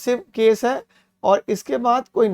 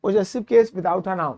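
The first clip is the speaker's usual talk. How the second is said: slow rule reading; much slower than usual. Shown as a demonstration. Teacher rereads rule heading slowly.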